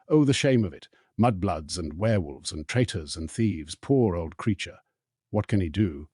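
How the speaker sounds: lightly voiced old elf muttering spite; a hint of a bitter old servant griping to himself; understated sour elf grumble; grumbling house elf. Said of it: "in a hoarse, deep voice, like a bullfrog's".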